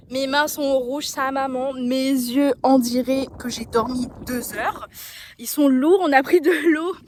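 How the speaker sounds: loud, thrilled after the ride; breathless excitement telling it; excited. Real, not acted.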